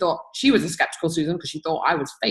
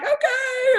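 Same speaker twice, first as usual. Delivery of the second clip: meek okay. Retold or imitated. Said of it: "And I'm like".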